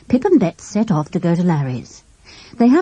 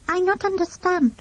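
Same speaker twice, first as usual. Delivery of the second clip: put-on higher, French-accented, blandly innocent; irritating French accent; 12 semitones higher, 3 dB quieter than usual. A narrator's reading. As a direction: play dumb in a French accent. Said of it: "said the boy irritatingly".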